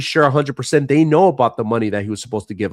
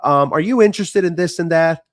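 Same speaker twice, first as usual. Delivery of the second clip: spam caller voice; 3 semitones higher than usual. Retold or imitated. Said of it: "those spam calls saying".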